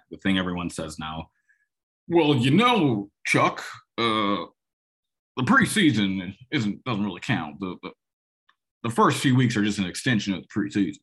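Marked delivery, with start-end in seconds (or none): 2.1-11.0 put-on lame George W. Bush accent. Host mocking what everyone says about preseason, lame Bush voice. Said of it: "forgive my George, my lame George W. Bush accent there".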